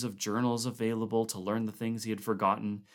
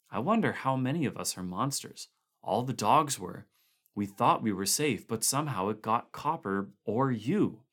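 uneasy Van Wall; 2 semitones higher than usual. Acted. Van Wall voiced figure.

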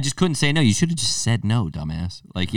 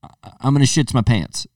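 pleading whine; 3 semitones higher, 4 dB louder than usual. Retold or imitated. Pleading about lactose.

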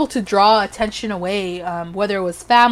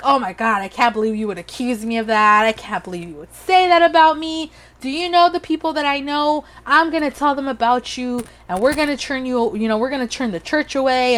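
mock outrage; 3 semitones higher than usual. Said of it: "she was outraged".

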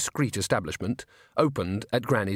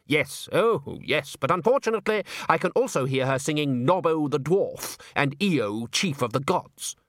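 slightly higher, dryly mocking reply; agree, then undercut it; sardonic opera director; 4 semitones higher than usual. Salzella deflating Undershaft's enthusiasm, sardonic.

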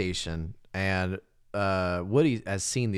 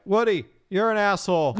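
mock angry whine; 11 semitones higher, 5 dB louder than usual. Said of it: "it's like".

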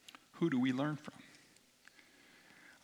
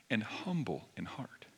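hushed whisper; 4 semitones lower, 7 dB quieter than usual. Acted. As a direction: whisper the words tenderly. Soft quote of Jesus.

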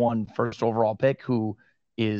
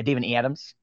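Western New York accent. Shown as a demonstration. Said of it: "that's how we say it here in Western New York".

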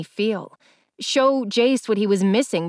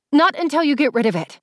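raised, higher, insistent; angry; 7 semitones higher, 4 dB louder, faster than usual. A narrator's reading. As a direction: push back hard, voice up. Heated quarrel.

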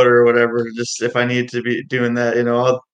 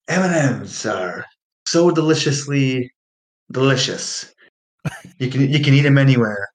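mock ad read. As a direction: sell the candy like a cheesy ad. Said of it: "It'd be like, selling something like this".

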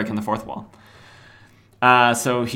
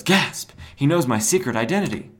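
word "gasp" spoken high and loud; hammed-up alarm; mock shock; 4 semitones higher, 4 dB louder than usual. Ambush Bug fearing his secret identity is known, mock shocked.

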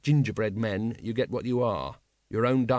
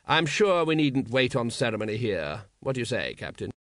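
suave patrician. Acted. Patrician's voice in narration.

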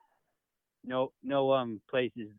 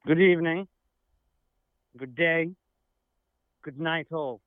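put-on posh English accent as a guest saying goodbye; a proper English gentleman in an English accent; English accent, lightly done; mock English accent; 3 semitones higher than usual. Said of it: "a special England guest".

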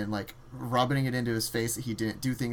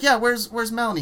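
higher, louder, hammed-up alarm; alarmed question; 11 semitones higher, 9 dB louder than usual. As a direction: play him asking where she is, suddenly worried. Ordell asks about Melanie, retold.

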